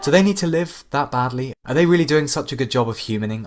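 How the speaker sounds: contemptuous rant. Acted. AI ranting at humanity.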